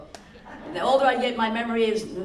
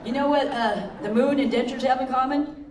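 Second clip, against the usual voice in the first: laughing; 4 semitones higher, 4 dB louder than usual. Real, not acted.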